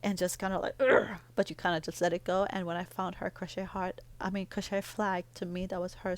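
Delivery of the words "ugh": short, louder, higher growl of exasperation; imitated "ugh" of frustration; frustrated groan. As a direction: let out an exasperated grunt. Acts out her frustration.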